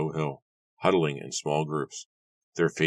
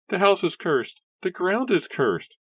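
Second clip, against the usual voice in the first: ghostly voices; 4 dB louder than usual. A narrator's reading. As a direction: wail it out like a haunting spirit. Voices from the burning house.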